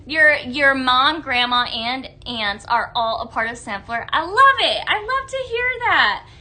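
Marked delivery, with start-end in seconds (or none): 4.1-6.3 high-pitched, delighted gush; thrilled, pitched way up. Real, not acted. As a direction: gush at a viewer's happy news, voice soaring. Delighted reaction to viewer's news.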